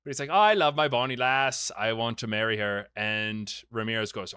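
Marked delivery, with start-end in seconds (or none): 0.3-2.9 hammed-up, funny Scottish accent; fake Scottish accent. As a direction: put on a joke Scottish lover's accent. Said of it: "my fake funny one".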